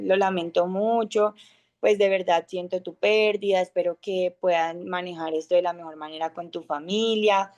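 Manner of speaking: calm heartfelt condolence on a phone call; sincere condolence. Shown as a demonstration. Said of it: "yo le voy a decir".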